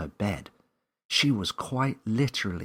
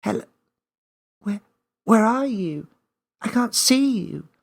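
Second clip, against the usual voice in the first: much higher and louder anxious call; young Millie searching for the unseen voice; child calling out; 9 dB louder than usual. Acted. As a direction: shout into the empty field. Millie calls to hidden voice.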